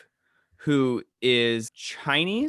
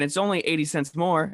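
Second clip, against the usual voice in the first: Southern lady voice; 4 semitones higher than usual. Retold or imitated. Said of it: "she's got a Southern accent".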